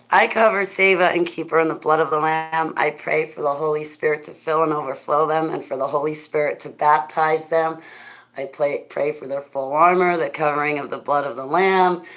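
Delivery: an earnest spoken prayer, with a slight lift at the start. Acted. Praying aloud for Seva and the animals, earnest prayer voice. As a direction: pray it out, covering them in the blood. Prays over Seva and others.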